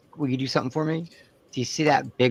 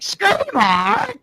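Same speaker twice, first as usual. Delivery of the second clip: mock tough-guy line; 14 semitones higher, 4 dB louder than usual. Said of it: "just be like".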